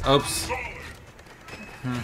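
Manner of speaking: hiccuping mid word; hiccups. Real, not acted. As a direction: caught by a hiccup. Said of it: "because I got hiccups now".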